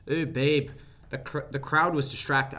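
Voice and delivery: a light Scottish accent on a retold line; lightly mock Scottish wrestler. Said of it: "I'm doing a Scottish accent".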